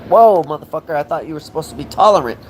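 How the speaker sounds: loud, high, fast disbelief; mock shocked retort. Ranter mocking an intolerant critic, loud and high. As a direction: throw it back at them in mock shock. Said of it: "I'm like".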